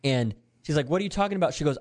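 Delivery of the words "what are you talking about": retold puzzled question, pitched high; confused mom. Mom questions her daughter's claim, confused. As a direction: imitate a baffled mother, voice raised in pitch. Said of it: "Her mom's confused".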